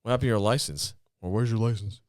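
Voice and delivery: lightly voiced stoner, rising at the end; a hint of a stoner impression; Chong. Comic demonstrating the other Chong, light impression. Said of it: "the Chong is that one".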